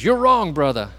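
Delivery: high, loud shout of protest; retold yell of a big man standing up; yelled retort. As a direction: shout it back from the pew. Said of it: "and he yelled back at him".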